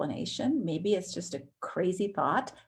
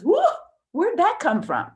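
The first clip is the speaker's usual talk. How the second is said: startled whoa; 8 semitones higher, 5 dB louder than usual. Pretend. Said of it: "another part of us steps back and says".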